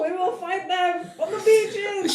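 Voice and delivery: high, rousing mock oratory; rally the troops, hammed up; mock wartime speech. Host rallies the women, mock-heroic oratory.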